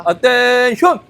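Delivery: barked drill command; drill sergeant. Acted. Guard shows drill skills.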